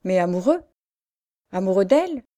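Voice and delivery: put-on rising, building rapture over the girl; growing exaltation. A narrator's reading. Boy carried away by his love for the girl, rising exalted voice. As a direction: swept up in praise of her beauty.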